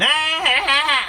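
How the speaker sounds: high, loud affected ahs; posh put-on voice. Hearing himself change voice with friends, affected ahs. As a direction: catch yourself sounding like someone else. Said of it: "I don't speak like this".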